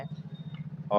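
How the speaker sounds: unvoiced अ for contrast; whispered vowel. Shown as a demonstration. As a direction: breathe अ with no voice. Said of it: "तो ये दोनों ज़्यादा होता है आ".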